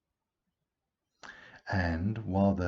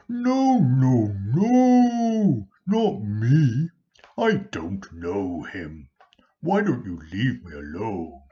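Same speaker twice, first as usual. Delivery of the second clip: much higher and louder desperate Peter; panicked denial; 6 semitones higher, 13 dB louder, slower than usual. Acted. Peter panicking, denying Jesus to servants, high loud desperate. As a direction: plead frantically to be left alone.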